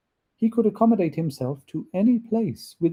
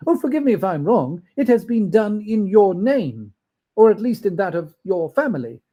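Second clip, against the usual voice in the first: quick, higher, louder apology; flustered Scrooge; 5 semitones higher, 4 dB louder than usual. Acted. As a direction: hurry to excuse yourself.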